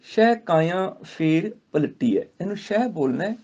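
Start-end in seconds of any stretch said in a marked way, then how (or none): 0.0-2.2 slow measured Gurbani recitation. Shown as a demonstration. Teacher recites the verse to students, slow. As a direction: chant each word with pauses.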